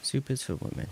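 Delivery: high, put-on comic voice quoting the meme; mock meme voice. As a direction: squeak the line like the meme clip.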